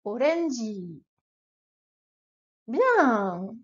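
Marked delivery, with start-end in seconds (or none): 0.0-1.0 orange as orenji, lower; Japanese orange. Shown as a demonstration. Teacher giving the word to repeat. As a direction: model orange for repetition. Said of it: "Allez, répète après moi".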